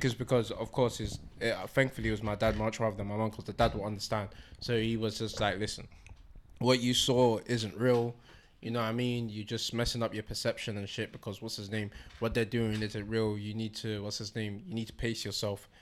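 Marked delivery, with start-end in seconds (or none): 5.6-15.7 calm fatherly talk. Retold or imitated. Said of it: "It was such a calm conversation".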